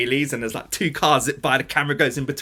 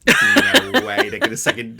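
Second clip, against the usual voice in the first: laughing disbelief; 9 semitones higher, 6 dB louder, slower than usual. Retold or imitated.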